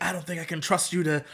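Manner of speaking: lightly voiced scolding leader, lifting in pitch; gently mock a leader's lecture; retold scolding. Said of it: "she scolds them".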